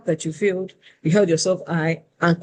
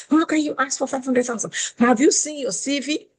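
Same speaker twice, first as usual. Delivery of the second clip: much higher, indignant imitation; mad recruiter; 8 semitones higher than usual. Recruiter scolding a candidate over her CV, indignant. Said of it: "She was so mad".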